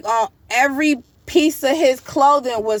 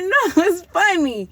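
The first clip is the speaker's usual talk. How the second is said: laughing; 8 semitones higher than usual. Retold or imitated. Laughing along in the dream.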